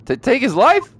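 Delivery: stuttering start, rising incredulous end; acted shock. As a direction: echo the accusation in stunned disbelief. Game hero shocked by accusation.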